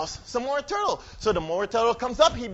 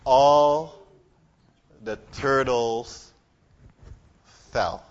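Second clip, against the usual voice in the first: slow climax; 9 semitones lower, much slower than usual. A narrator's reading. Story climax, slowed.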